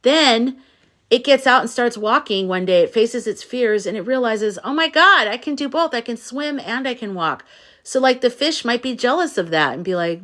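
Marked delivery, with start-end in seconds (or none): 4.6-7.4 excited duck. Acted. Duck discovers it can walk.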